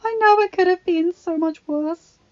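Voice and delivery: speaking through her fingers; words muffled by hands over face. A narrator's reading. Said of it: "voice muffled between her fingers".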